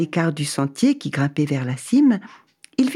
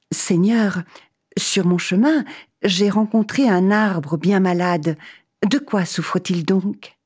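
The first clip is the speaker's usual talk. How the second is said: eager traveller; 3 semitones higher than usual. Acted. Man asks God.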